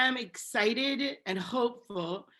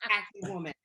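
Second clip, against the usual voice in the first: scornful. Retold or imitated. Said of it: "and I'm like".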